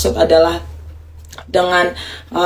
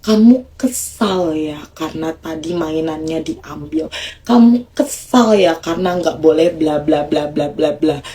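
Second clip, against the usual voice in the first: low soothing tone; 2 semitones lower than usual. Shown as a demonstration. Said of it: "Nada rendah".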